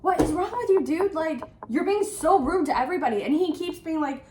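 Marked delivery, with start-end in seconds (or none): 0.0-3.2 mock exasperated scolding. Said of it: "I was like".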